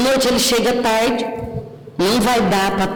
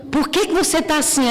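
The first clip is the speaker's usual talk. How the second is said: higher, quick prying question; mock concerned question; 6 semitones higher, faster than usual. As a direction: ask fast why she's like that. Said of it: "alguém me pergunta". (pergunta intrometida, rápida e aguda)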